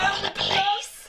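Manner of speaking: hammed-up host pretending to call for help; mock alarm. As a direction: play it as fake alarm.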